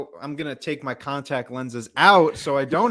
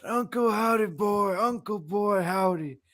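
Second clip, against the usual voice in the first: higher, teasing name-calling; playful sing-song; 5 semitones higher than usual. Pretend. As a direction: toy with the name mockingly.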